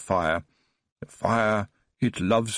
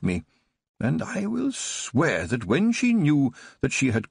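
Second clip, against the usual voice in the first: put-on higher, bright-eyed eager old man reliving childhood; boyish enthusiasm; 4 semitones higher than usual. Old Baron tells Tiffany his childhood memory, eager and boyish. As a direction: tell it like a thrilled boy. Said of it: "as enthusiastic as a boy".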